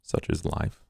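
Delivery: whispered. Acted. Duke's dry reply after handshake.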